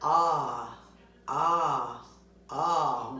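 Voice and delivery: Ah said as an open ah; Ah repeated as a short open vowel; short O sound. Shown as a demonstration. Teacher modelling the short O for the class. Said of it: "short O makes what".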